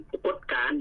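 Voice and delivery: ปรากฏการณ์ opening on short "a"; short "a" vowel. Shown as a demonstration. Teacher shows everyday fast speech, short first vowel in ปรากฏการณ์. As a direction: say ปรากฏการณ์ as "pa-kot-kaan" with a quick first syllable. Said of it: "สระอะเด้".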